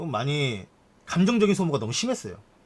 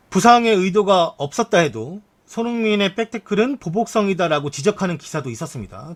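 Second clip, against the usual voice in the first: projected, formal article reading; news read; 3 semitones higher than usual. Acted. Streamer reads viewers a report on the tackle, news read.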